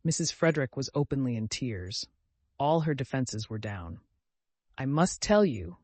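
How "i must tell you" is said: sobbing. Acted. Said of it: "she sobbed".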